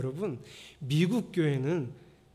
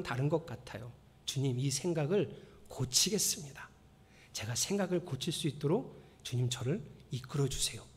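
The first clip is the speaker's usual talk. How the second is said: sincere quiet prayer; 4 dB quieter than usual. Shown as a demonstration. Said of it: "이렇게 기도하세요".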